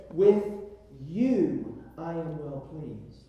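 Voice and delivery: slow line with "you" set apart and lifted; emphatic, drawn-out "you"; stress on you. Shown as a demonstration. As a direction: pause before "you", stretch it, then let the rest fall. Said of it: "is emphatic".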